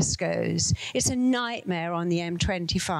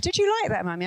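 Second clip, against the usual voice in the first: put-on child's voice; faster than usual. Daughter asks after the ride.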